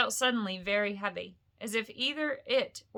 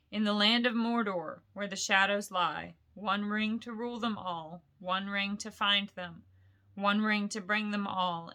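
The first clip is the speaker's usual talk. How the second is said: solemn recitation. Acted. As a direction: intone the inscription gravely. Reciting the verse.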